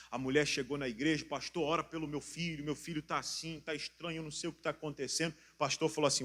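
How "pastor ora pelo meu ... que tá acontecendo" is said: hushed, much softer retold plea; worried plea. Mother asking the pastor to pray for her strange son, hushed plea.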